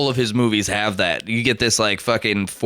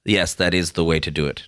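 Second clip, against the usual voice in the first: Herzog impression; 7 semitones lower than usual. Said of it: "he's like".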